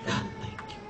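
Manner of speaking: squeaky high, very soft forced thank you; high, tiny, strained gratitude. Retold or imitated. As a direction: thank God through clenched disappointment. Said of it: "harus bisa bilang".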